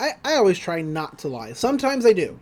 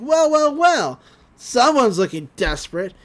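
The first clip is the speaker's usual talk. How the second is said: sly villain voice; 4 semitones higher, 3 dB louder than usual. Retold or imitated. Bill voiced in recap.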